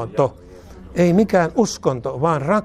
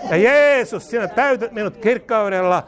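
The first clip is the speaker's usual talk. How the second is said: emphatic cry; 5 semitones higher than usual. Real, not acted. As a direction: lift the name like a shout of praise. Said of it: "repeated louder as climax".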